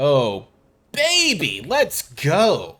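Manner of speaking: loud, very slow, hammed-up cartoon villain voice. Mid card game, a player exclaims, sounding like a cartoon villain. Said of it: "I sounded like a cartoon villain there".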